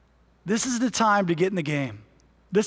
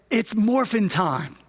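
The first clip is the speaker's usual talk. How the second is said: rally cry. Retold or imitated. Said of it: "their rally cry, they would say".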